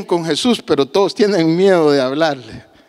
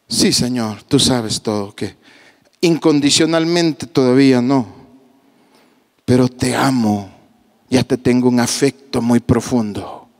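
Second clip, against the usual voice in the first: humble Peter; 6 semitones lower than usual. Acted. Peter answering Jesus.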